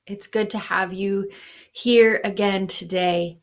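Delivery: put-on Minnesotan accent. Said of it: "did you hear my great Minnesotan accent there".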